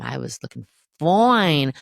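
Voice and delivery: slow, loud, sassy boast; sassy brag. Retold or imitated. Proud old self bragging about the bikini, loud and slow. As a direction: show off like you still look great.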